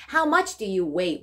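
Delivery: slow, clear English question; deliberate teaching delivery; slow model reading. Shown as a demonstration. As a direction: spell it out slowly for the class.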